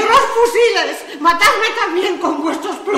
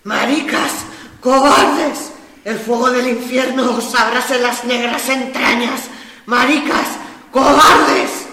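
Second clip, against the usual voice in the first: tragic heroine sorrow; 6 dB louder, much slower than usual. Acted. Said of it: "Me ha estremecido esa voz trágica".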